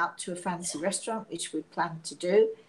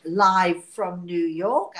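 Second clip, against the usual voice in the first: slow, louder announcer call of live from New York; TV show opener; 6 dB louder, much slower than usual. Retold or imitated. Quoting the TV show opening to viewers, slow booming announcer call. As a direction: boom it out like a late-night show host. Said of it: "as they say".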